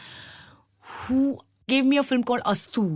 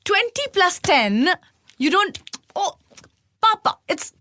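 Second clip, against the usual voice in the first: high, slow exasperated cry; a mild mock yell at her father; retold shouting; 8 semitones higher than usual. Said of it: "just shouting".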